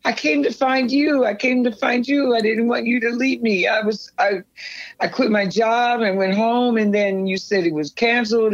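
high, insistent retold pleading; retold plea. Telling David why she came, pleading.

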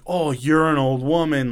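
a hint of sneering staff taunt; mocking taunt. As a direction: toss it at her like a cruel joke. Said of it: "fucking taunting her".

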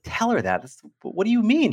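retold disbelief, pitch jumping up on mean; a teen baffled by mom's advice, voice shooting high; incredulous. Son to mom about thank-you card, incredulous.

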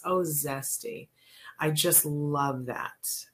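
host moved by a listener's comment, slow and tender; touched. Real, not acted. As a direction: let the listener's words land gently.

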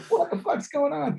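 high-pitched mock bewilderment; imitated bewildered outburst. Retelling a character waking up confused, mock bewilderment.

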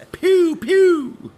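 high, loud pew pew through laughter; mock gunshots. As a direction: kid gun sound effect. Gun noise.

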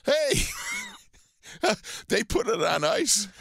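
high mock shout, then easing down; retold call-out. Retelling a buddy's injury joke, high mock shout. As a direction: call it out high like the guy did. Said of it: "he goes".

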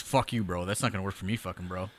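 a muttered tough-guy brush-off; low angry bro. Retold or imitated. Matt Morgan cursing out the caller, a low mock anger. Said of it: "He goes".

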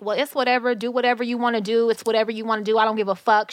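mild mock tirade; lightly acted argumentative outburst; imitated cussing argument. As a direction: retell a dismissive, cussing rant. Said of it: "she's arguing, and she's cussing".

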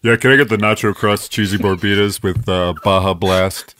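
low, far-off voice through a speaker; drive-thru speaker voice. Acted. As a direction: order through a crackly drive-thru box. Customer ordering at drive-thru speaker.

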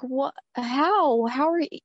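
put-on astonished to see the older sister; shocked disbelief. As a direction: react like you can't believe she's here. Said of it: "And we were like".

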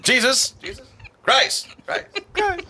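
loud high boxing announcer; booming stage introduction. Acted. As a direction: boom it out like a ring announcer. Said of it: "doing my announcer voice".

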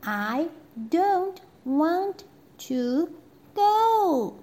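put-on high, loud rising childish refusal; stubborn princess. Princess refusing the queen, high and loud. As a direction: dig in like a stubborn little girl. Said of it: "said the princess".

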